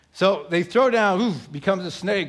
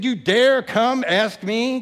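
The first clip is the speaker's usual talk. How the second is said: slow, loud, scornful challenge; defiant challenge; 4 semitones higher, 5 dB louder, slower than usual. Acted. Pharaoh sneering at God, slow and loud. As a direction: dare him to ask, louder.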